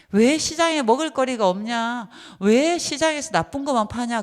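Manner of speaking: mock complaint. Mimics complaining shoppers.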